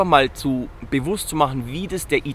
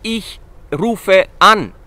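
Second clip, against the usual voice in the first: slow demo; 4 semitones higher, 7 dB louder, much slower than usual. Shown as a demonstration. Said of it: "also du gehst".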